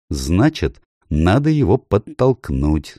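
ordinary delivery, nothing marked

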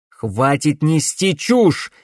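loud, slow furious shout; angry shout. A narrator's reading. Camilla threatens Cordelia, shouting. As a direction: Camilla yells at Cordelia to stop lying. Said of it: "крикнула Камилла".

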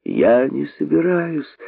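listless rabbit brushing him off; listless reply. Acted. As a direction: shrug it off lazily. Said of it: "вяло отвечал находчивый".

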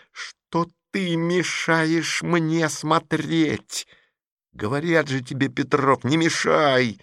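slow cold steely tone; metallic voice. Acted. Masha coldly tells Petrov to stop, steely. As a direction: clip each word like metal. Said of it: "металлическим голосом".

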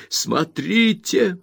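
high and loud, slow furious accusation; Rosa, furious. A narrator's reading. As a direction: hammer each word into the mother. Points at the scar. (Роза в ярости бросает обвинение матери)

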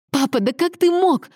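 high, reproachful daughter's voice; high-pitched shocked reproach; dismayed exclamation. A narrator's reading. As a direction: cry out, appalled at father. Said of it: "воскликнула Аньезе".

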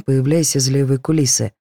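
ordinary delivery, nothing marked

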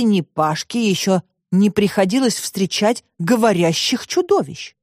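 usual speaking voice

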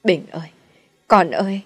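calling out a dead son's name in despair; desperate cry. Acted. Mother cries out to her dead son, despairing wail. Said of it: "miệng kêu lên tuyệt vọng".

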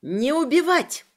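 high, loud piercing scream; shrill shriek. Acted. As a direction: screech the order out. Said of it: "пронзительно заверещала я".

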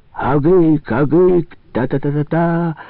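shaman's roaring cry. A narrator's reading. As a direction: bellow it out like a shaman in trance. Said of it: "ревел шаман".

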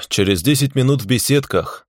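unhurried, offhand reply; lazy. Acted. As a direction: toss it off lazily. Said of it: "лениво ответил я ему". (лениво)

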